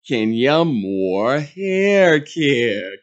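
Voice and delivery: slow, drawn-out ad voice; mock commercial read. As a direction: savour the brand name like a commercial. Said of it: "filming some promotional commercial".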